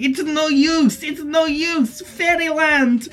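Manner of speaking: shouting. Acted.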